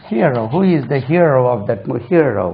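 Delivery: Hero said "HEE-uh-ro"; slow model question, glide inside Hero; correct hero. Shown as a demonstration. Teacher puts the word in a sentence, glided pronunciation. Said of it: "அது ஹீரோ இல்ல".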